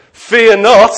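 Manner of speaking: loud, high proclamation "Fear not"; booming angel. Pretend. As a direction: boom it like a heavenly herald. Angel's booming opening gambit.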